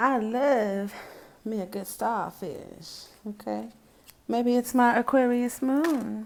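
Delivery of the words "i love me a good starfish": put-on Texas drawl with "love" drawn out. Repeating the starfish line while bringing out a texas accent. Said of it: "I'm gonna bring out my Texas accent".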